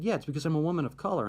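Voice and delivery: high, quick imitation of an angry retort; retold anger. Student telling friend why she was asked, retold anger. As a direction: insist as the aggrieved colleague. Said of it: "she was kinda angry".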